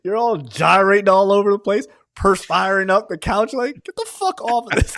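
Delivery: hammed-up high scold; mock furious scolding of couple. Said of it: "she's like".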